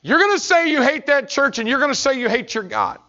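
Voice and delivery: put-on a drunk father's hateful roar; drunk father's rant. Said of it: "he said".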